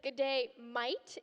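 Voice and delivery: slow "Good day, mate" with "mate" said like "mite"; spelled as "mite". Shown as a demonstration. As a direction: make "mate" rhyme with light, slowly. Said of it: "a shirt that says".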